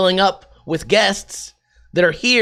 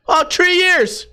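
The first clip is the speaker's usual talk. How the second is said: put-on Irish accent, much higher and slow on "three years"; mock Irish fighter drawing out "Oh, three years."; Conor McGregor; 12 semitones higher, slower than usual. Jesus at the gates turns Conor McGregor, Irish accent. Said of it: "he turned into Conor McGregor".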